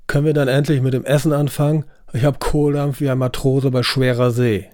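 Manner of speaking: fast, rough grumbling; Raymond blustering. Acted. Hungry Raymond demanding food, blustering. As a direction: bang on about dinner. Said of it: "polterte Raymond".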